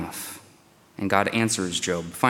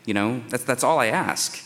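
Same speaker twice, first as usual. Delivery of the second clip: pleading, pitch climbing higher, breath-short on "just"; begging for relief; 3 semitones higher than usual. Retold or imitated. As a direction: beg for a moment's rest, voice rising. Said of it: "So Job is begging for relief".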